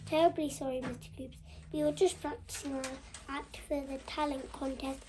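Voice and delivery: mild mock politeness to the teacher; best polite voice. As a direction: put on a hint of innocent good manners. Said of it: "said Darren in his best voice".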